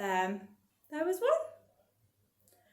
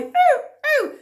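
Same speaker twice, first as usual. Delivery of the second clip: playful monkey "ooh ooh"; monkey whoops; 14 dB louder than usual. Pretend. Monkey sounds in action song.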